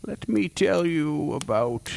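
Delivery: slow, hushed dramatic narration; ominous slow cold open. Acted. Host opens the monster episode with slow ominous narration. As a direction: draw them in slowly like a dark storyteller.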